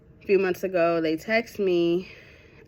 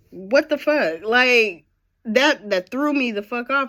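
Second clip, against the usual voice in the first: exasperated outburst; 6 semitones higher, 7 dB louder than usual. Real, not acted. Reacting to being called by nickname.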